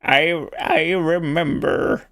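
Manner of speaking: put-on slow, drawn-out old man. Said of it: "I can't even do an old man voice anymore".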